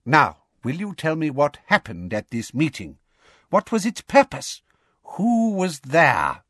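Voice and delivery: high, pressing questions; high official voice, insistent; coaxing, pompous Fudge. A narrator's reading. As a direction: question a reluctant witness, building.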